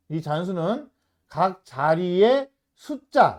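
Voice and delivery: slow, word-by-word problem reading. Shown as a demonstration. Teacher walking students through the problem again, slowly. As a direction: read slowly, giving each phrase its space. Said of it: "다시 천천히 읽으면서".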